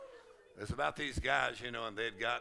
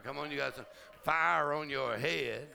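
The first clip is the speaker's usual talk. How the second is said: rising preaching; 3 semitones higher than usual. Acted. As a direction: preach it up, climbing with joy. Preacher building to full force.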